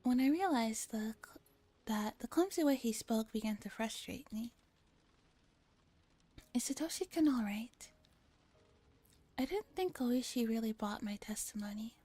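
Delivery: measured first-person narration; story narration. Acted. Reading a police questioning scene from a game, measured story narration. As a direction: read it as an inner monologue, each sentence settling down.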